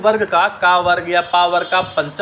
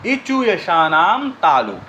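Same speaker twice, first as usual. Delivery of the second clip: slow sutra recitation; slower than usual. Shown as a demonstration. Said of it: "इसका formula क्या हो गया?".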